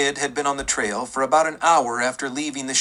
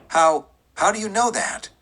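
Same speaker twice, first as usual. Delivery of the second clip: higher, stumbling, mildly fevered question; fevered pitch; 7 semitones higher than usual. A narrator's reading. Deputy pressing the sheriff, a touch fevered and higher. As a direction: let the voice climb with a stammer. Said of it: "voice was rising to a fevered pitch".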